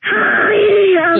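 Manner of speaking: sudden shrieking hi; scary shout. Pretend. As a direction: jump out and yell it. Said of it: "That scared me".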